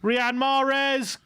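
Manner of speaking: high, rising commentary on a chance; tense play call. Real, not acted. Commentator as Mahrez nears the box, tense and excited.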